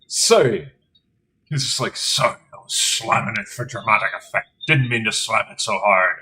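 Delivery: put-on blacksmith apologizing in a lowish Norwegian accent; sheepish Norwegian-accented apology. Player voicing character apologizing, in Norwegian accent. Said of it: "Why were you speaking in a Norwegian accent?".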